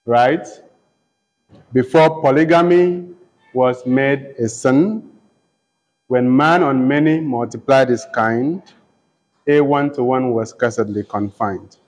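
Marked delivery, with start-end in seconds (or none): 1.7-11.8 slightly slowed, measured reading of the lines; verse reading. Shown as a demonstration. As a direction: read the lines with care for the meter. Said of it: "just note, um, the lines".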